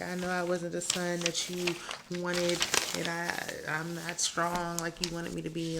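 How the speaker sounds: hammed-up self-pity; mock victim. Son pleading with his dad, mock victim whine. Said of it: "acting like some victim".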